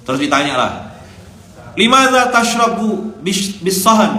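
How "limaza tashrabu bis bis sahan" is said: high, slow, loud questioning; stern interrogation. Retold or imitated. Officer questioning the boy drinking from a plate, stern. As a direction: demand an answer like a strict officer. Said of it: "kata dia".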